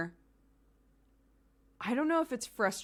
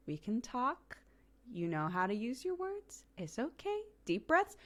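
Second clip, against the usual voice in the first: soothing; 5 semitones higher than usual. Shown as a demonstration. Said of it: "the engagement has to be calm".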